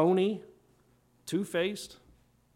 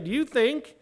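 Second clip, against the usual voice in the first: incredulous rhetorical question, pitched up at the start; sarcastic paraphrase, easing back down toward the end; Paul's sarcasm; 2 semitones higher than usual. Acted. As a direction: challenge them with mock disbelief. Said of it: "almost sarcasm just, just dripping".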